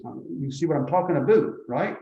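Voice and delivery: put-on Canadian accent. Teacher teasing his Canadian viewers, mock Canadian accent. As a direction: tease it out in a jokey Canadian accent. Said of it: "let me do my imitation of the Canadian".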